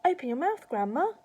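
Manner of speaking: put-on high, loud urgent boyish call; cried out. A narrator's reading. George arriving with water for Grandma, crying out. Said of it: "he cried".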